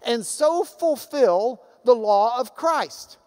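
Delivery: slow, weighty scripture reading. Acted. Preacher reading scripture slowly to the congregation. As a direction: read the verse slowly with weight. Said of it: "So he continues".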